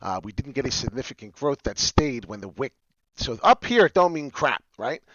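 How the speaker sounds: usual speaking voice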